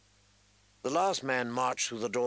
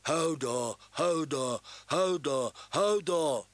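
frightened shouting; 3 semitones higher, slower than usual. A narrator's reading. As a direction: panic building into a shout. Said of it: "shouted Hodor, eyes wide".

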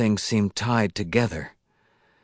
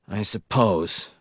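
slow, mildly miserable mumble; a resigned, unhappy give-in; slower than usual. Acted. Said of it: "Wisconski said miserably".

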